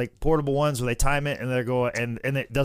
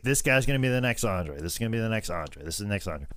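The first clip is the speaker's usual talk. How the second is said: 1 fading mock hype; 7 semitones lower, 5 dB quieter than usual.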